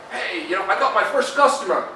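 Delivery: cheering with a laugh at the first customer; a high woo, then laughing it out; whooping first success. Retold or imitated. New business owner celebrating his first customer, laughing and cheering.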